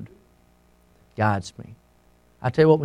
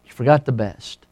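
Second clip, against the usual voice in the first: softer, lower hushed line; retold whisper; 4 semitones lower, 6 dB quieter than usual. A narrator's reading. Mysterious voice telling the man what he forgot, hushed. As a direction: lightly suggest a whisper, voice dropped. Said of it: "The voice whispered to him".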